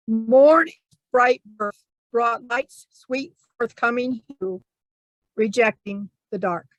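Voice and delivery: emphatic opening, then measured lines; haiku recital. Acted. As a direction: announce the haiku firmly, then pause between phrases. Rereads the haiku on request.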